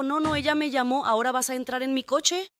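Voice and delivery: pitched well up, pushy retold demand; agitated demand. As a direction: imitate him insisting she get in the car. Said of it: "muy alterado".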